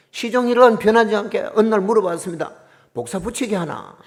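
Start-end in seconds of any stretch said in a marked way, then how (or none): 2.9-4.0 a laugh through the teasing question. Retold or imitated. A father-in-law teasing his daughter-in-law about copy-pasted texts, laughing. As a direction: tease her with a chuckle.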